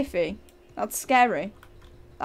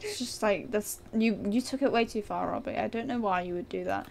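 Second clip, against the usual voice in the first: mock disappointed lecture; 2 semitones lower than usual. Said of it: "so out of character".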